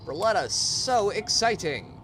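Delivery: loud, high sarcastic cheer; mock thrilled shout; faking delight at gift. Fake joy at getting Berletta.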